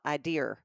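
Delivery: "idear" with an R on the end; Southern pronunciation. Retold or imitated. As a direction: imitate "idea" ending in an R. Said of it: "Every time he said the word idea".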